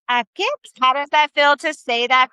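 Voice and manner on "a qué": "¿A qué?" with the pitch going up like a question; questioning intonation. Shown as a demonstration. Teacher models a Spanish question for the class, questioning intonation. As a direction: lift the end of "¿A qué?" into a question. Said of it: "go up in our intonation".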